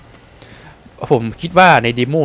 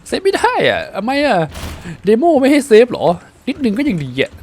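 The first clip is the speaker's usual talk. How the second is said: high, pleading whine; whiny complaint; 10 semitones higher than usual. Real, not acted. Streamer whining at the demo that won't save, pleading. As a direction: beg the game to let him save.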